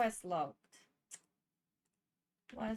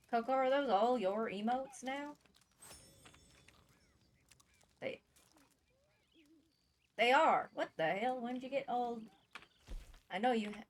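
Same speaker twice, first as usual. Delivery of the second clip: over-the-top Southern cowboy voice; exaggerated southern accent. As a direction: lay the Southern accent on thick. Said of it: "Nice southern accent".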